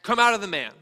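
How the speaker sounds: high, strong rebuke; forceful order. A narrator's reading. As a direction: command the spirit firmly to leave. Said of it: "he ordered".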